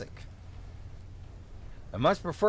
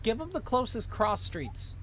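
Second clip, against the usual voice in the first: higher-pitched Minnesotan cop; vaguely Minnesotan accent; 6 semitones higher than usual. Acted. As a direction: give the order in a Minnesotan accent. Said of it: "give him a vaguely Minnesotan accent".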